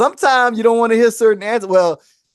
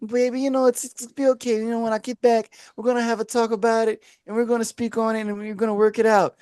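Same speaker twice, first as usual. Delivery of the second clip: put-on soothing girlfriend; 4 semitones higher, 3 dB quieter than usual. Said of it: "Lie to me".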